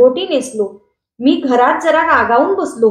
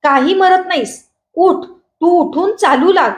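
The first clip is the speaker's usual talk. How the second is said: scolding mother; 5 semitones higher than usual. Acted. Mother scolding beaten son.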